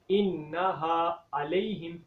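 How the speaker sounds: अलैहिम with a hamza instead of ain, slow; wrong hamza sound. Shown as a demonstration. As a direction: show the mistake in अलैहिम. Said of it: "ये गलत है क्योंकि यहाँ पर हमज़ा की sound". (अलैहिम में आइन की जगह हमज़ा, गलत)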